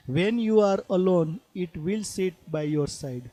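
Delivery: slow, measured poetry reading; poem recitation. Acted. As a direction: read the verse slowly, phrase by phrase. Reads poem lines aloud. (ધીમું કાવ્ય પઠન)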